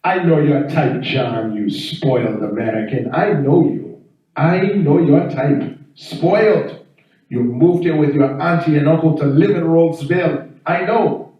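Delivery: accusing neighbor in a put-on African accent; African neighbor's accent. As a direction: scold him in a mock African accent. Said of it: "I got this African neighbor".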